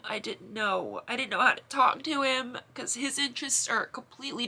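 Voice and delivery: pushing through tears; tearful. Real, not acted. Sister describing her inner crisis over her brother, tearful. Emotional confession continues.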